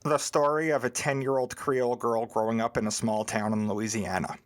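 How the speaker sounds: low, monotone put-on white voice. Cohost reads the Amazon blurb to his friend in a white voice. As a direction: read it deadpan in a deep, level white-guy voice. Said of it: "Is that your white voice?".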